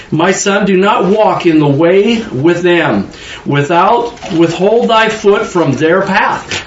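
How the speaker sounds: slow, measured Bible reading; preacher reading scripture aloud. Acted. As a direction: read the verse slowly, with weight. Reads Proverbs aloud.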